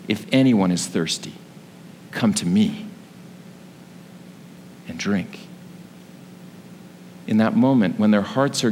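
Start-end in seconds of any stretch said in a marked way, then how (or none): 0.1-5.4 low, hushed quote with long pauses; restrained, lower-pitched recitation; subdued retelling. Retold or imitated. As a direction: say the quote low and gently, letting each phrase settle. Repeats the cried words, subdued.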